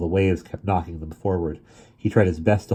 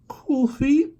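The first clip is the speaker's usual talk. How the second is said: sad; 3 dB louder than usual. Acted. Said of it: "he said sadly".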